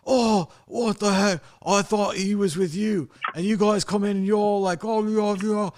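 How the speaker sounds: hammed-up astonished Irish guy; mock Irish accent. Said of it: "the guy's like".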